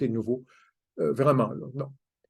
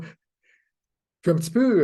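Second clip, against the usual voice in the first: stunned surprise; 6 semitones higher, 4 dB louder, much slower than usual. Retold or imitated. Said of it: "estomaqué".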